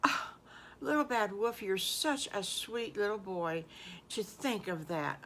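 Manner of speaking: tender praise. Acted. Wife praising the wolf tenderly.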